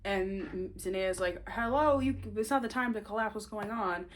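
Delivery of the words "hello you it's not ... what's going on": worried wife. Retold or imitated. Wife finding her husband collapsed, high worried alarm. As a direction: jolt him awake like a frantic wife. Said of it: "A worried, concerned wife".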